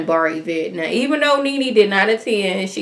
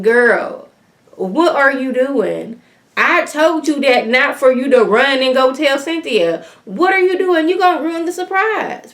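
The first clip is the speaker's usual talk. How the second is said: mock-scolding a friend, pitch climbing higher; exasperated scolding; 6 semitones higher than usual. Retells a friend scolding Kenya.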